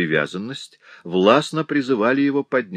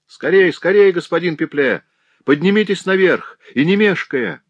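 high, loud urgent shout from above; shrill hurried cry echoing down a staircase; piercing call from upstairs; 10 semitones higher, 6 dB louder than usual. A narrator's reading. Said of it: "чей-то пронзительный голос".

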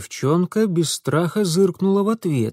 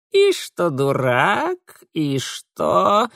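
slow creaky drawl; creaky Mara; 4 semitones higher, much slower than usual. A narrator's reading. Mara mocking both of them. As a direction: drag it out sardonically.

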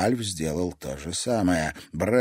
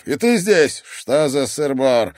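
smirking; 5 semitones higher, 6 dB louder, slower than usual. Acted. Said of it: "с усмешкой осведомился Аскетил".

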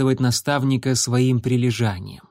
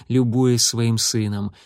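ordinary delivery

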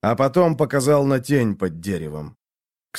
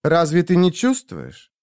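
higher, breathy temptress; breathy vintage purr; 7 semitones higher than usual. A narrator's reading. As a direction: coax it with a purr. Ashera voiced by narrator.

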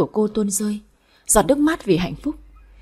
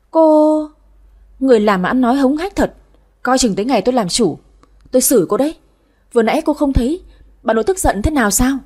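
higher, indignant rival; haughty young woman; 4 semitones higher, 4 dB louder than usual. Acted. Would-be mistress threatening a servant, haughty. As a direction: rebuke the servant with affronted pride.

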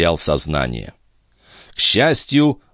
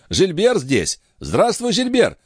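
high, genial greeting; friendly high-pitched surprise; good-natured exclamation; 13 semitones higher than usual. A narrator's reading. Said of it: "добродушно воскликнул он".

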